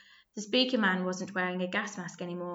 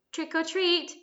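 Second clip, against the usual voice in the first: croaked; 9 semitones higher than usual. A narrator's reading. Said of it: "croaked Ringo, almost unable to speak".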